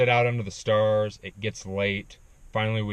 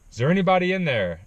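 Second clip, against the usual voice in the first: loud, higher call right at the tent; 8 semitones higher, 6 dB louder, faster than usual. Retold or imitated. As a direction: call in loud to whoever's inside. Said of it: "And then I hear".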